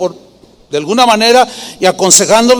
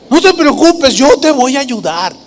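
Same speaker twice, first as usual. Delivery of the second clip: high, fawning reassurance; flattering; 5 semitones higher than usual. Acted. Absalom winning over someone with a problem, flattering. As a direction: promise help in an oily, raised voice. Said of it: "con ese tono así lisonjero".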